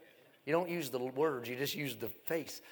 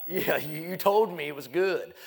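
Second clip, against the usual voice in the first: louder, rising protest at the realtor; indignant outburst; 3 semitones higher, 10 dB louder than usual. Real, not acted. Preacher to the congregation, suddenly louder. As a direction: throw it back at him, louder.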